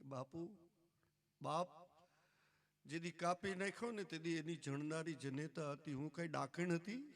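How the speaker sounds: soft, hurried grieving plea, understated; grieving mother's plea to God, softly hurried; grieving reproach. A narrator's reading. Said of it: "એટલી પોક મૂકીને રડી".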